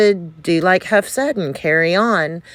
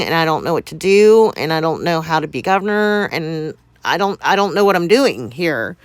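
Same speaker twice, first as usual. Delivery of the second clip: panicked; faster than usual. Retold or imitated. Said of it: "I broke down".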